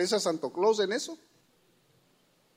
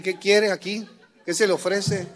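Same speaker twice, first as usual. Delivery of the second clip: mock tough greeting. Father greeting daughter's suitor.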